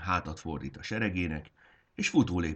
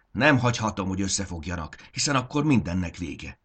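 frantic outcry; 3 semitones higher, 5 dB louder than usual. Acted. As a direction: shout it out in panic, louder. Frantic leader sees army unite.

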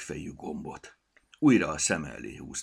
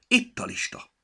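much higher, loud triumphant shout; 7 dB louder than usual. A narrator's reading. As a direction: yell it though alone. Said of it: "miért kiabál".

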